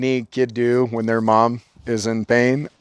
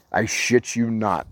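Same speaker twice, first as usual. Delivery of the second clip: ordinary talk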